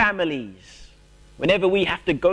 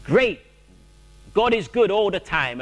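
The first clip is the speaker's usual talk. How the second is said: forced cheerfulness; 4 semitones higher than usual. Pretend. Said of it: "we say".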